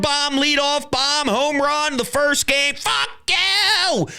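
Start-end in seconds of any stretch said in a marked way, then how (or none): 2.7-4.1 high, half-shouted curse; mock scream at the Mets. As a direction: fling it at the other team. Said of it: "my response is always".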